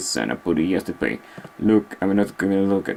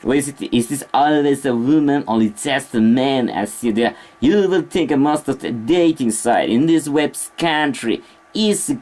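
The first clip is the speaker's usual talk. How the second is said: British accent; 3 semitones higher than usual. Shown as a demonstration. Streamer demonstrating to viewers how British differs, attempted British accent. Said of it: "British accent is something else".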